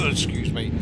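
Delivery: talking through coughs; throat catching, coughing between words; choking. Real, not acted. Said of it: "I don't know why I'm choking".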